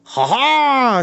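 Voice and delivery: loud, high mocking laugh; shouted laugh. A narrator's reading. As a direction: bellow a triumphant laugh. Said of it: "shouted Samhain".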